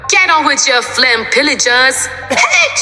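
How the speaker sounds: high-pitched order to the crew; bossy calling out. Acted. Pirate captain ordering crew along, bossy holler. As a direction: call it out high, ending on a yelp.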